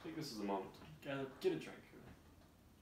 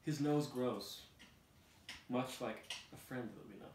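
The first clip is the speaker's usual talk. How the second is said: high puppet voice; 4 semitones higher than usual. Acted. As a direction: protest like a little puppet. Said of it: "Pinocchio exclaims".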